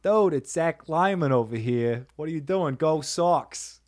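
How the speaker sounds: lightly put-on Boston accent; a hint of Boston sports-fan accent. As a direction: do a playful mock Boston greeting. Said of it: "Not even, like, a Boston accent?".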